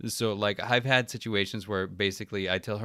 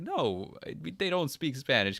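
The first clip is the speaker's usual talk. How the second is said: higher-pitched, mildly exasperated correction; retold exasperated retort; 6 semitones higher than usual. Husband answering judgy strangers, mildly exasperated. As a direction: push back in a lifted voice.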